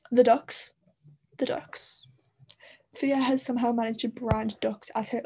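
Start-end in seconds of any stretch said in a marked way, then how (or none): 0.1-0.7 excited announcement. Real, not acted. Announces a favourite detail. 1.4-2.0 whispered echo. Real, not acted. Echoes the announcement softly.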